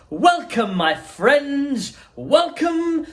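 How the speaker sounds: high, fluty, welcoming call; high fluty Wonka. Acted. Wonka greeting the five children at the gates, high and fluty. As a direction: sing out a greeting like a delighted host. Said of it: "His voice was high and fluty".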